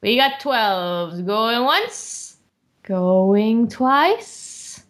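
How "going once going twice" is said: slow drawn-out sold call; auctioneer call. Acted. Auctioneer closing sale.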